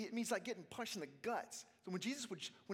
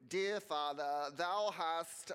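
slow, louder mock-solemn prayer voice; stiff formal prayer; 5 dB louder, much slower than usual. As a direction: ham up an old-fashioned pious prayer. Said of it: "we go".

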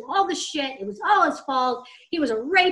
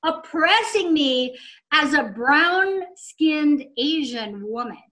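mock apologetic man; 2 semitones higher, slower than usual. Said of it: "he apologizes and begs".

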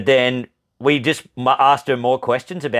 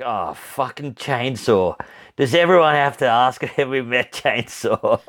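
slow, fed-up groan; weary exasperation. Retold or imitated. Breeders complaining about the same old question, weary. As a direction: sigh it out as if asked a hundred times. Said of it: "They're like".

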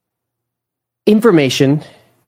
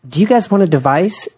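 higher, sing-song offering voice; imitating the host; 8 semitones higher than usual. Mom imitating the dinner host offering the kids a device, higher sing-song. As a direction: mimic a friendly adult offering a treat.

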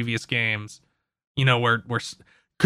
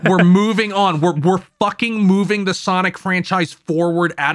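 raised, emphatic mock declaration; forceful pretend mission statement; mock proclamation; 4 semitones higher, 3 dB louder than usual. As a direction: punch it out like a rallying slogan. Acting out the game's message, again.

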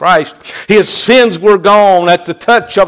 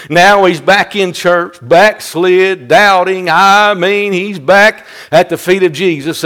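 louder, punchy pulpit delivery; forceful preaching; 4 semitones higher, 4 dB louder than usual. Acted. Preacher telling church of the doubter's return, forceful preaching. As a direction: drive each phrase home to the church.

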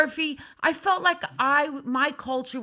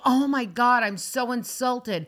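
fake hurt pouting; 2 semitones lower than usual. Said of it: "I didn't go".

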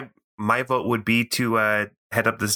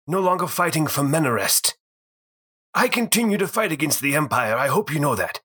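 higher, urgent vow of purpose; earnest plea; 4 semitones higher than usual. Acted. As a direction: insist you still matter. Pine pleads his worth, in character.

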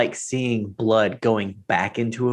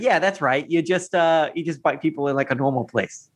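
mock approving Derek; 4 semitones higher than usual. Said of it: "And it's like".

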